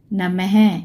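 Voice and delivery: नमः ending in an audible breathed "ha"; visarga pronunciation. Shown as a demonstration. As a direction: let नमः close on a "ha" sound. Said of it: "आवाज़ होगी ह की". (नमः के अंत में "ह" की आवाज़)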